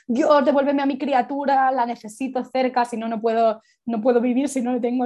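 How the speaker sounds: a mother begging for her child, anguished but only lightly acted; a touch of mock anguish; desperate plea. New mother's desperate inner plea.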